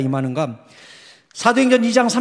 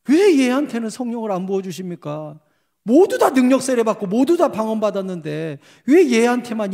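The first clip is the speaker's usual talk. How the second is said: higher, protesting plea to God; retold pleading prayer; 4 semitones higher than usual. Pastor asking God why the girl is left out, pleading. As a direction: plead and complain upward. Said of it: "하나님께 기도하는 거예요".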